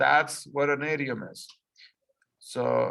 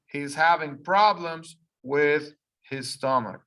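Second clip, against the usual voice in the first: slow reading aloud. Shown as a demonstration. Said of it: "I'm gonna read it slow first".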